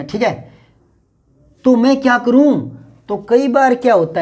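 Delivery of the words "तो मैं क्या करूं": higher, exasperated what-do-I-do; helpless exasperation. Shown as a demonstration. Teacher acting out a helpless speaker's exasperation. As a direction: throw up your hands asking what to do. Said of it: "कोई भाव ही दिखाना पड़े".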